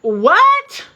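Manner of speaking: loud, high, laughing disbelief; a stunned, laughing what. Retold or imitated. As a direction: caught completely off guard. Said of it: "I'm still over here like".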